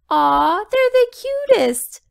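very high delighted squeal; loud high aww; cooing. A narrator's reading. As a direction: gush over the cute monsters. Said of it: "said Flower Girl".

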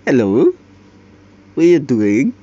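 imitating a British accent on a casual hello. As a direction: put on a playful British accent for the greeting. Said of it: "Susah loh accent British kayak gitu ya".

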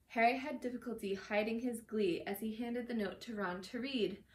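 measured read-aloud storytelling; reading a novel aloud; story narration. A narrator's reading.

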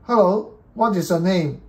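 slow, loud, carefully enunciated; clear spoken command. Real, not acted. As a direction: speak clearly so the computer understands. Speaking commands to speech recognition.

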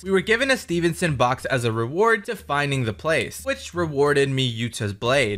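steady even recap narration voice; story recap narration. A narrator's reading. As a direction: narrate the episode recap calmly. Recap narration over footage.

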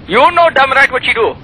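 put-on furious shout down the phone in the Indian accent; angry shout. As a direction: yell it at them in the Indian accent.

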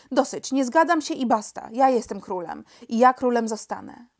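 firm, mildly angry insistence; defiant refusal. Acted. Young king overrules his minister, defiant refusal. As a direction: insist on your authority, emphatically.

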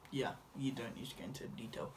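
hushed whispered aside. Real, not acted. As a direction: whisper it to yourself. Aside while recording.

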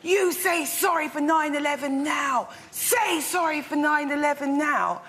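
jab the words at her like an accusation; imitated angry yell. Stranger yelling at a Muslim woman, mock angry. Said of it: "she points in my friend's face and she goes".

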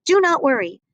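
a lightly voiced eager young reindeer. Rudolph's note voiced in story.

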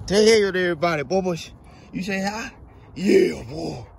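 high sing-song call to the dog; dog-talk call. Real, not acted. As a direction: coax the puppy over sweetly.

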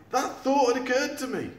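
high, sharp sarcastic retort. Acted. Eric retorting to Sid's obvious advice. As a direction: snap back with dry sarcasm. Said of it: "retorted Eric".

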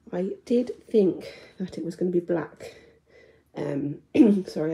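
breathless after climbing stairs; talking while out of breath. Real, not acted. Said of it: "I'm out of breath for coming up the stairs".

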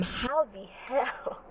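very soft, slow, drawn-out reenacted shock; stunned disbelief. Student reliving missing the exam, stunned disbelief. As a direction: let it out slowly, barely voiced.

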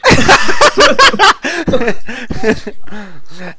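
laugh burst. Real, not acted. Reaction to whispered aside.

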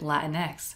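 "Latin X" said as Latin plus the letter X; chosen pronunciation. Shown as a demonstration. YouTuber showing viewers her chosen pronunciation, "Latin X" as Latin-ex. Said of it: "I choose to pronounce it".

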